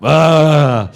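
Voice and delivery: long loud 'ah', hammed up; loud put-on 'ah'. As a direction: let out a big mock-obedient ah. Rehearses happy compliant reaction.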